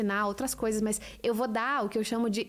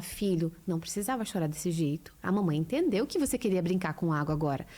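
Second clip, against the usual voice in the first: put-on lower, gentle mother explaining to her child; calm mother to child; 4 semitones lower than usual. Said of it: "Aí você fala".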